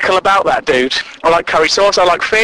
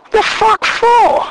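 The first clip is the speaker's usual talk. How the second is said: slow, much higher indignant squawk; baffled outrage; 14 semitones higher, slower than usual. Retold or imitated. Diner objecting to lemon on his fish, baffled outrage. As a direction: demand the reason, appalled.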